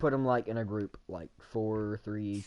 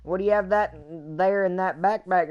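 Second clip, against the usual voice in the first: curious friend; 5 semitones higher, 3 dB louder than usual. Retold or imitated. Friend voiced in retold story.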